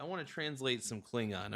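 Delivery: ordinary talk, nothing marked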